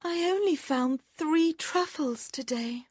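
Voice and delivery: put-on girl sadly counting truffles. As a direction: sigh over the basket like a young girl. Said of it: "she thought sadly".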